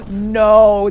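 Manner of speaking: shouted disbelief; loud shocked no. Real, not acted. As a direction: burst out in disbelief. Disbelief at copied wings.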